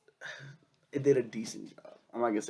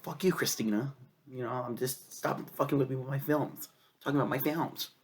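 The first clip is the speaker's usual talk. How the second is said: angry; 4 semitones higher than usual. Retold or imitated. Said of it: "'Cause I get really pissed off".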